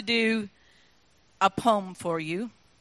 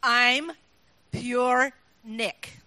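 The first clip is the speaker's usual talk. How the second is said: Scottish accent; much slower than usual. Shown as a demonstration.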